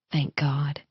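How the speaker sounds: soft whispered thanks; whispered relief. Acted. Brother relieved his friend is fine, whispered. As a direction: breathe it out in relief.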